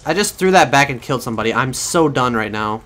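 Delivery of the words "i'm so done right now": slow resigned "so done", drawn out; fed up, slow. Real, not acted. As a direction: let the words drag in defeat. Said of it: "I sound angry about it".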